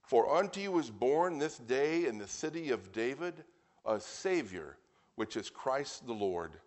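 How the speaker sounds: deliberate, emphatic Bible reading. Real, not acted. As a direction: proclaim the verse unhurriedly, stretching key words. Resumes reading scripture.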